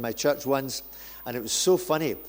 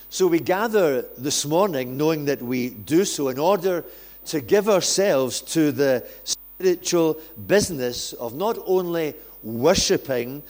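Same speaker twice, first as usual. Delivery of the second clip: normal talking voice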